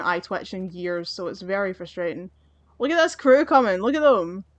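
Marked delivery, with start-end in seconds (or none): 2.8-4.4 higher and louder, pointing out the enemies; eager heads-up to the viewers; sudden excited exclaim; excited call-out. Real, not acted. Crew of enemies approaching.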